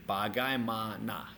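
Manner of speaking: Bagaimana slowly, each syllable counted out. Shown as a demonstration. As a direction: separate the four syllables of Bagaimana. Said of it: "How many syllables are in this word?".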